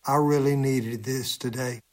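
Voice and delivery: understated, serious quoted remark. Retold or imitated. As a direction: say it earnestly and simply. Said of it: "in a very serious tone".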